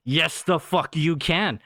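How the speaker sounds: slow, stretched-out mock comeback; emphatic retort. Worker doubting someone who claims no Spanish, emphatic drawn-out retort. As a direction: draw the words out in imagined disbelief. Imagined retort to language excuse.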